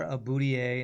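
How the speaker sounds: boudoir mangled as "boudier"; mispronunciation. Shown as a demonstration. Streamer quoting how people miscall a boudoir, mispronounced. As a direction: say "boudier", a botched take on the French boudoir. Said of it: "A lot of people call".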